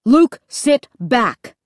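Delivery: slow, exasperated dad's plea; weary parent spelling it out slowly; pleading. A narrator's reading. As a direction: stretch each word, begging him to behave. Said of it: "Dad pleaded".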